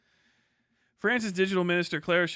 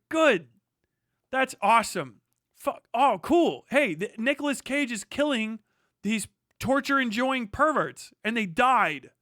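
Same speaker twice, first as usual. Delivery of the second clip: mock cheering; 5 semitones higher, slower than usual. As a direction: cheer like a crowd at the movie. Retold audience cheering.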